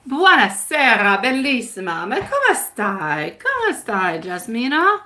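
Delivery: playful Italian charmer greeting; purring latin lover. Acted. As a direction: sing out a suave buonasera. Italian greeting to viewer Jasmina.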